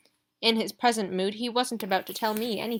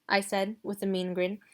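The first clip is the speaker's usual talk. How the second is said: usual speaking voice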